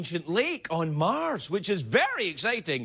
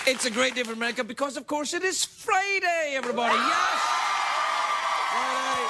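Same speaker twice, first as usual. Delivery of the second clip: showman announce; 6 semitones higher than usual. Acted. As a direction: sell the catchphrase to the crowd. Host's signature opening repeated.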